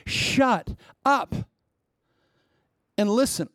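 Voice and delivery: high, sharp "Shut up" with a stretched "up"; retold rebuke. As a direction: snap it at the chatterbox with a rising "up". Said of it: "I said".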